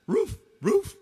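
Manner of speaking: very high woof-like yelps; imitated dog bark. Dog answers the baseball question, very high mock bark. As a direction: yelp both words like a barking dog. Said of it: "The dog says".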